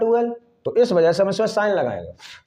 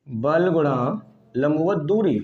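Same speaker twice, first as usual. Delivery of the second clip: slow repeated dictation; slower than usual. Shown as a demonstration. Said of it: "ये सूत्र है".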